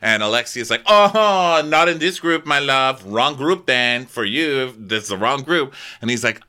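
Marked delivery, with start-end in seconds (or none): 0.9-5.7 high, loud snooty imitation of Alexia; sneering put-down in a high voice; mock Alexia. Friend imitates Alexia dismissing Thierry, high and loud.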